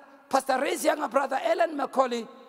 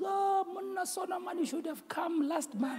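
imitating the principal; 4 semitones higher, 8 dB quieter than usual. Principal telling pastor he came too late, imitated high soft lament. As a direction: voice the principal's regret high and quiet. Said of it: "he goes".

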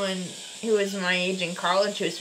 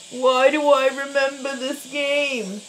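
louder, higher, put-on Massachusetts accent; 5 semitones higher, 6 dB louder than usual. Shown as a demonstration. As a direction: read it in your best mock Massachusetts accent. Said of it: "That's my best Massachusetts".

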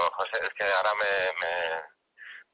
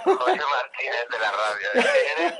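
indignant outburst; 6 semitones higher, 6 dB louder than usual. Real, not acted. Protests after being pranked.

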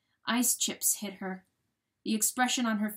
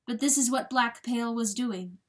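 ordinary delivery, nothing marked

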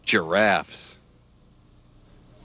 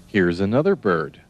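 normal talking voice

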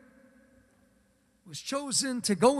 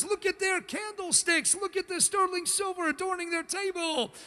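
mock envy; 4 semitones higher than usual. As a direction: play the envious neighbor, a bit hammed-up. Acting envious neighbor peering in.

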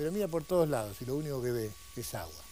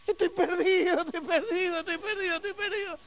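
very high hammed-up wail; despairing wail; 13 semitones higher, 3 dB louder than usual. Sailor lost a minute later, comic high wailing. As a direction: wail on one high, repeated note.

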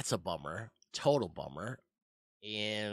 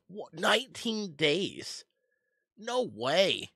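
high, loud and slow in disbelief; shocked disbelief; 9 semitones higher, 4 dB louder, slower than usual. Real, not acted. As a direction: cry out at the bad news. Pirate delay just announced.

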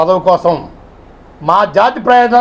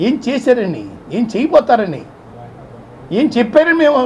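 rising anger; 7 semitones higher than usual. Real, not acted. Leader asking Jagan what he ever did, angrily building. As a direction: build the demands to a shout. Angry speech against Jagan.

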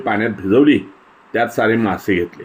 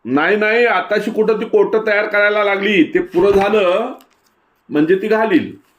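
put-on high, eager know-it-all kid voice; much higher child voice correcting his friend; young boy Hamza; 10 semitones higher than usual. A narrator's reading. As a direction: explain like a proud village boy. Hamza answers about eggs.

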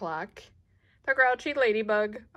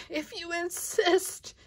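high eerie hyena voice; 10 semitones higher than usual. Acted.

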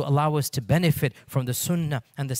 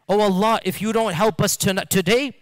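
pleading prayer; 6 semitones higher, 5 dB louder than usual. Retold or imitated. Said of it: "The whole night in dua".

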